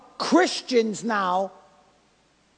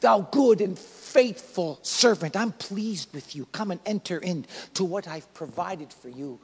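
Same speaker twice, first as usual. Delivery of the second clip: gentle voice of the Lord; 4 semitones lower than usual. Retold or imitated. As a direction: hush down and welcome the faithful servant tenderly. Preacher voicing God welcoming him home.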